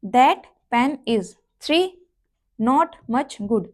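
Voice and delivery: drawn out, every word stretched; very slow demo. Shown as a demonstration. Teacher showing the short vowels, very slow. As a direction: stretch each word so the vowels are heard. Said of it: "ये जो आपके six short vowel हैं".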